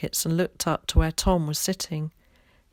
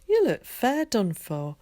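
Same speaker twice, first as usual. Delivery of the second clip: concerned woman; 6 semitones higher, slower than usual. A narrator's reading. Wife voiced with concern.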